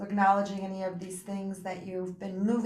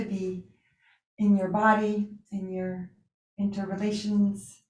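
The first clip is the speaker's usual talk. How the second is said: unhurried yoga teacher voice with long pauses; guided relaxation. Real, not acted. Yoga teacher settling students for Yoga Nidra, guided relaxation. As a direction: ease them into rest, leaving space between phrases.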